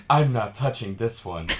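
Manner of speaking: lightly voiced creepy servant; barely changed Homunculus voice; Homunculus impression. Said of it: "That's my homunculus impression".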